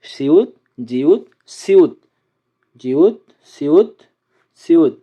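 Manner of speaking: সিউত, জিউত slowly, word by word; উচ্চারণ দেখানো. Shown as a demonstration. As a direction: say সিউত and জিউত as slow, separate model words. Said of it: "উচ্চারণগুলো ঠিক এভাবে আসে". (সিউত, জিউত ধীরে আলাদা করে উচ্চারণ)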